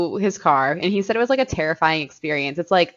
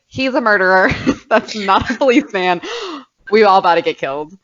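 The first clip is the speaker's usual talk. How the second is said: louder, rushed mock panic; 3 semitones higher, 5 dB louder, faster than usual. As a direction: race through it like imagined danger. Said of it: "my brain is like".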